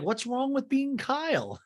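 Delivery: lightly voiced Kyle; mock Kyle. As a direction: play it wounded and drawn out. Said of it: "And Kyle's like".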